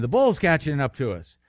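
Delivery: mildly urgent storytelling plea; imploring. Acted. Companion warns John that the bull is gaining, mildly imploring. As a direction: plead with a touch of alarm. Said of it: "implored the companion".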